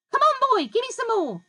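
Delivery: high, loud greedy yell, "give" hit hard. A narrator's reading. Grandma yelling at George for another dose. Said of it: "she yelled".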